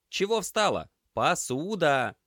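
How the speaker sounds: loud, high bark to shoo her off; barked order. Acted. Semyon barks at Lena, loud and high. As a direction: snap her away from the mess, loudly.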